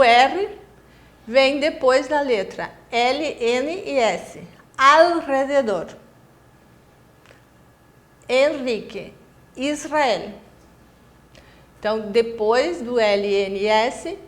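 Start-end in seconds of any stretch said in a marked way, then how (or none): 4.8-10.3 "alrededor", "Henrique", "Israel" with rolled R; Spanish trill demo; trilled R after L, N, S. Shown as a demonstration. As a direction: roll the R after the consonant. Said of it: "o R tem que vibrar".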